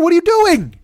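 high, loud exasperated cry; exasperated yell. Real, not acted. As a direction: throw up your hands and shout it in disbelief. Exasperated rant at parents going out.

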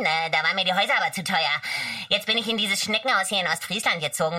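put-on lightly Berlin-accented crab; a hint of Berlin dialect, chatty. The crab introduces himself to the kids in light Berlin dialect. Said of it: "eine kleine Krabbe und sagt".

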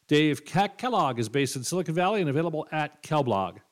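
mock-legal podcast credits read; scripted outro read. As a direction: read the show's disclaimer like official small print.

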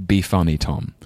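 mild mock order from the cousins; lightly voiced command, stressed start then dropping; retold command. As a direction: imitate kids ordering a performance. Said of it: "like, a command".

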